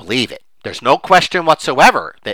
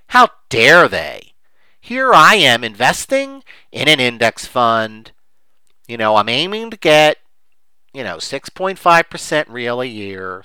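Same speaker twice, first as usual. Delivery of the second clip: mock indignation; 4 dB louder, slower than usual. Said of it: "The emotion underneath is".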